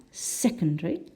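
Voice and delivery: "secondary" stressed on the first syllable, rising at the end. Shown as a demonstration. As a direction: lean on the opening of "secondary". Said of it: "the first syllable".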